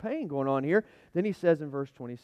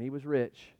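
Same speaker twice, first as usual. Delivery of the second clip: softer, lower, reflective; quiet repeat; 3 semitones lower, 6 dB quieter, slower than usual. Real, not acted. Pastor repeats it quietly, reflecting. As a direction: let it drop, almost to himself.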